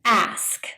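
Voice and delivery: "ask" with s before k, ending in a k; careful correct "ask"; correct pronunciation. Shown as a demonstration. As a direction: say "ask" cleanly, s then k. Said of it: "correct pronunciation is".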